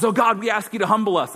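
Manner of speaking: imitating a praying pastor. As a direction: ham up a pastor's earnest prayer. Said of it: "this pastor says".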